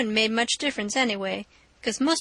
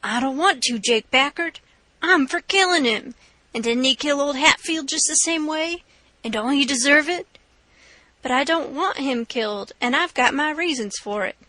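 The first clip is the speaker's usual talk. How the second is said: hot-headed robber; 3 semitones higher than usual. Acted. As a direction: push hard for the killing. Robber Bill argues to kill.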